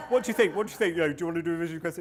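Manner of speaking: loud, high, fast coaxing; mock eager elders pressing the teen. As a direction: push the kid, eager. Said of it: "we said".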